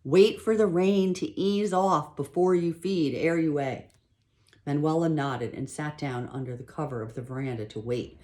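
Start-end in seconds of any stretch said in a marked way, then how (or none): 0.0-3.9 louder and slow, over the rain noise; raised voice. Acted. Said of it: "put her mouth right next to Manuela's ear".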